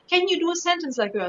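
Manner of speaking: lightly mimicked request, pitched high; imitated requester. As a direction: imitate people asking for a party trick. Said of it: "when people are saying".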